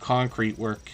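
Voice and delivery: mild whining. Real, not acted. Streamer griping to viewers about concrete work, mildly whining. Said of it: "you can hear the whining in my voice".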